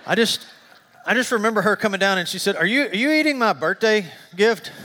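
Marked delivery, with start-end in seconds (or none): 2.6-4.7 higher, mock-incredulous wife; retold disbelief. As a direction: act out a wife's stunned accusation. Wife catching him eating her gift.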